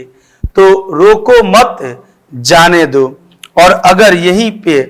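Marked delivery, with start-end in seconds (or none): 0.9-3.1 slow "रोको मत", then a falling "जाने दो"; pause in the phrase. Shown as a demonstration. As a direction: draw out "रोको मत" before dropping onto "जाने दो". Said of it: "हम यहाँ पर थोड़ा रुकेंगे". ("रोको मत" धीमे, फिर "जाने दो")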